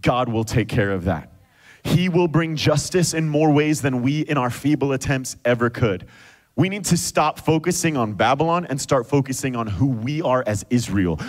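ordinary talk, nothing marked

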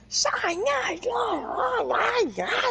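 high, loud panicked protest. Real, not acted. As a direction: plead no in a panic.

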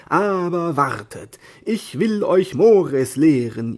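high, loud, grand battle cry; the knight shouts down the millers, high and loud; heroic shouting. Acted. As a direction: shout the challenge like a mad knight. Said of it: "Die Müller hörten das Geschrei".

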